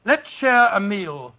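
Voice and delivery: sincere plea to listeners, slowing at the end; a hint of a heartfelt wartime appeal; earnest appeal. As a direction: urge the audience to share food. Public service appeal.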